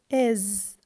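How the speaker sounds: "is" as the voiced z ending; isolated z sound. Shown as a demonstration. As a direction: buzz the z in "is". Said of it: "I pronounce the S".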